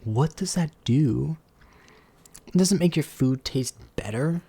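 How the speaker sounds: hushed grumble at the brand; whispered complaint. Real, not acted. Grumbling to chat about the Pringles logo, whispered. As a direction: whisper it, half to yourself.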